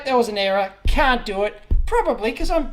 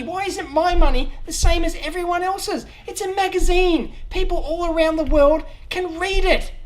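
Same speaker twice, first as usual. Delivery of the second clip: indignant complaint; 6 semitones higher than usual. Real, not acted. Australian user protests Amazon's region lock, exasperated. App store region block.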